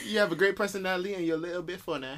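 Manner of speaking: hammed-up, unconvincing British accent; bad British accent. Joking compliment to a co-host, bad British accent. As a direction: put on a poor British accent. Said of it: "Your accent is horrible".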